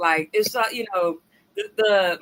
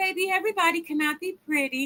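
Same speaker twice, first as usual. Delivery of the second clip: really nice, kind way, pitched higher; 8 semitones higher, 4 dB quieter than usual. Describing a blunt remark someone made, showing the nice version instead: said in a really nice way. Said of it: "like in a really nice way".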